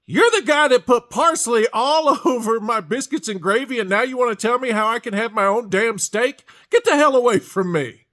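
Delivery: loud, high, furious yelling at the chef; angry shout. Retold or imitated. Diner shouting at the chef who ruined his food, angry shout. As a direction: tell him off at full volume.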